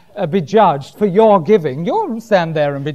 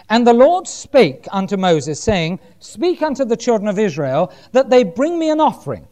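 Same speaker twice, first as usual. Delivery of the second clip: measured, raised preacher's reading voice; scripture reading; 3 semitones higher than usual. Acted. Preacher reading Proverbs to the church, declaimed. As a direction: read the verse out to the congregation.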